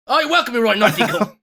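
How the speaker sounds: lightly put-on Australian accent; mock Australian accent. Shown as a demonstration. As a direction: go full Australian, cheeky. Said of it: "I'll go full, uh, full Australian".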